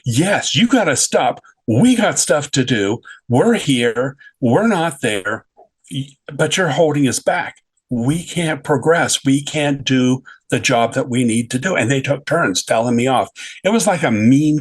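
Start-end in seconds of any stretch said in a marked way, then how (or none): 0.0-11.7 mild mock scolding. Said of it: "the other one chips, uh, chirps in".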